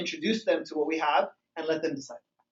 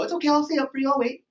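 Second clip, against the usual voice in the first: higher-pitched doting sweetheart, acted; lovey-dovey partner; 5 semitones higher, faster than usual. New partner offering to wait up, playfully lovey-dovey. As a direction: play the eager, devoted new love.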